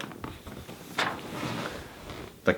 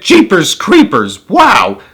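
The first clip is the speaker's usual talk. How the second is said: high, slow, drawn-out exclamations; shouted amazement; 5 semitones higher, slower than usual. Acted. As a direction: crowd crying out in wonder. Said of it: "They shouted".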